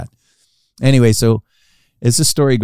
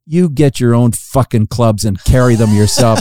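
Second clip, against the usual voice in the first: mildly fed-up outburst, louder; retold frustration; 2 semitones higher, 5 dB louder than usual. Caddy quits on Charles Barkley, acted frustration. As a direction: act out a caddy who has had enough, louder. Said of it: "this guy's getting really frustrated".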